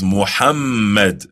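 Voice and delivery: Muhammad said with a breathy h and a held, doubled m; the right Muhammad, doubled m; Muhammad with stress on the long mm; correct pronunciation. Shown as a demonstration. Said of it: "but rather it is".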